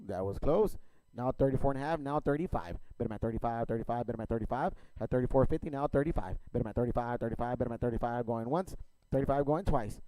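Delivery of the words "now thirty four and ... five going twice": rapid rhythmic auction chant; auctioneer. Real, not acted. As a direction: rattle off bids like an auctioneer. Auction chant bidding calls.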